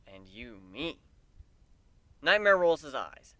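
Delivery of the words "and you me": devious. Acted. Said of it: "I grin deviously".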